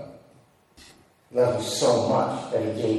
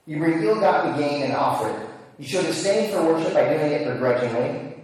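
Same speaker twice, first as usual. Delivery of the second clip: raised, stern voice of God rebuking his people; 4 semitones higher than usual. Acted. Preacher voices God rebuking Israel's half-hearted worship, stern and raised. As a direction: scold them as the Lord would.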